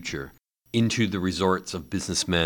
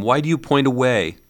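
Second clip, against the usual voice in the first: put-on higher puzzled old man; anxious Scrooge asking why; uneasy miser questioning the ghost; 7 semitones higher, 4 dB louder than usual. A narrator's reading.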